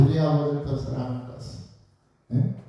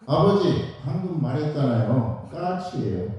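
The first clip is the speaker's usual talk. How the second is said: impatient son. Retold or imitated. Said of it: "그러니까 아들이".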